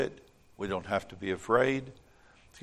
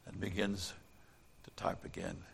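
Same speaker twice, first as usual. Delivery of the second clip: hushed, breathy whisper to finish; 4 semitones lower, 13 dB quieter than usual. A narrator's reading. Narrator whispers the fox's sly last move, soft whisper. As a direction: whisper the sneaky ending.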